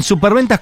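"superventas" accented on its first syllable, SU; stress on the U of superventas. Shown as a demonstration. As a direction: hit the SU at the start of "superventas". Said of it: "con acento en la U".

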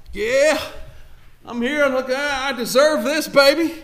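high, cocky entitled swagger; mock swagger. Preacher mocking an entitled believer entering heaven, cocky swagger. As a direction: strut in like you earned it. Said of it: "walking into the kingdom going".

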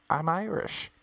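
high-pitched mock American protest; indignant American. American insisting on Irish roots to a doubting Irishman, mock indignant. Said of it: "people who get very angry".

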